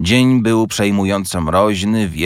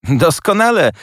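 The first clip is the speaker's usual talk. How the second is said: amused retort; 10 semitones higher, 5 dB louder than usual. A narrator's reading. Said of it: "roześmiał się siostrzeniec".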